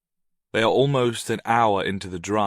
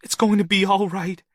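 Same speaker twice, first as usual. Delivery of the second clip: firm reassurance; 10 semitones higher, 6 dB louder than usual. A narrator's reading. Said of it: "saying firmly".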